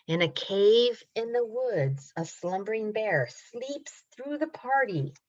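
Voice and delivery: rhythmic picture-book narration with stretched words; reading to children. A narrator's reading. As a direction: build suspense gently for little listeners. Reads story to children.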